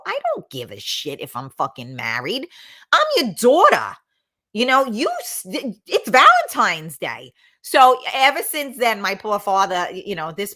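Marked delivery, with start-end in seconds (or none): 0.1-7.3 mock outburst. Retold outburst at her father.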